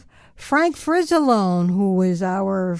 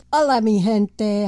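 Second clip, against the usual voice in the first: Spanish accent. Real, not acted. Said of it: "that's the accent".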